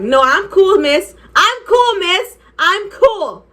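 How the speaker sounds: high, climbing insistence; insistent protest. Retold or imitated. Student telling the teacher she is fine, insistent.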